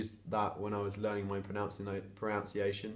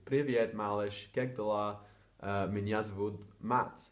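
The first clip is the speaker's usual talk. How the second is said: slow Russian demo; slower than usual. Shown as a demonstration. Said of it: "Or you can say".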